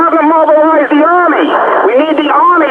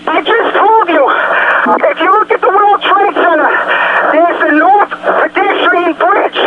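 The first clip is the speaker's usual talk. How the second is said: real panic; 2 semitones higher than usual. Real, not acted. Trapped civilian begs the dispatcher for rescue, panicked and pleading. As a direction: beg for rescue, struggling for air.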